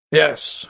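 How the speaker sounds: firm, emphatic "Yes". A narrator's reading. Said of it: "he said emphatically".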